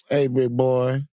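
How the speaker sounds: lightly voiced coaxing tempter; playful impression of a tempting inner self; Fat Van. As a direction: lure someone toward food, drawing it out. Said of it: "that's how Fat Van sounds".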